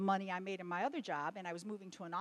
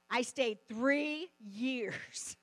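choking up on the memory; tearful; 5 dB louder, much slower than usual. Real, not acted. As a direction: voice breaking with tears. Cry heard on stayed three years.

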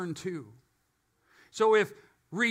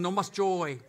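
Spanish-accented phrase. Shown as a demonstration. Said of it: "I say it with an accent".

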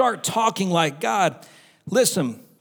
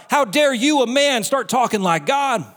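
raised, indignant quote; mock indignation; 4 semitones higher than usual. Angry crowd confronting Jesus for talking like God, mock indignation. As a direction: challenge him as if offended. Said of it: "They got so mad".

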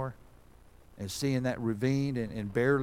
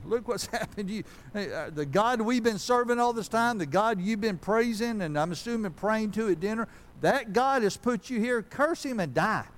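high, louder scornful wife's voice, cursing God; Job's wife mocking; 9 semitones higher, 3 dB louder than usual. Job's wife tells suffering Job to curse God, in a high scornful voice. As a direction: sneer it up high as a bitter wife. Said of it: "Remember what Job's wife told him?".

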